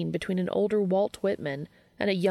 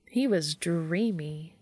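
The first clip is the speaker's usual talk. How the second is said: slow, lovestruck sigh of a line; swooning; slower than usual. Acted. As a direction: melt on dreamy. Charlie swooning over Castiel.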